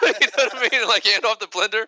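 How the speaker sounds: cracking up mid-story; laughing. Real, not acted. Telling friends the blender story, laughing hard.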